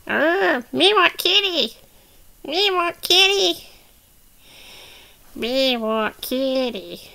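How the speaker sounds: whiny puppet begging, drawn out at the end; Grogu. Pretend. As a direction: play a pleading baby creature. Voices Grogu begging for kitty.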